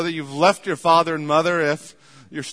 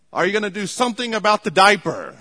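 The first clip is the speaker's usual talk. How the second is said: mock yell from the couch, quick and pushy; retold yell; 4 semitones higher, 5 dB louder, faster than usual. Husband on the couch yelling to his wife in the kitchen, mock yell. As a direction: call it across the room a bit faster. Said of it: "and he yells".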